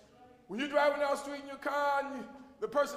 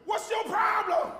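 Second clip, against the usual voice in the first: hollering boss; 4 semitones higher than usual. Retold or imitated. A boss screaming at an employee in front of everybody, mock yell. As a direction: berate the worker like a furious boss. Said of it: "the boss start hollering at you".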